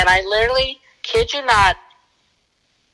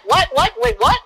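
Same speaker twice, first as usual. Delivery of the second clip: startled; 12 semitones higher than usual. Retold or imitated. Startled by partner's shout.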